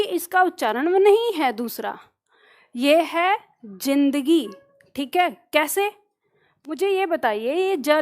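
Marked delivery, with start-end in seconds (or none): 3.6-4.5 जिंदगी slowly with voiced z; जिंदगी, correct Urdu z; Urdu pronunciation. Shown as a demonstration. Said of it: "गलत बोल रहे हैं". (सही उच्चारण ज़िंदगी)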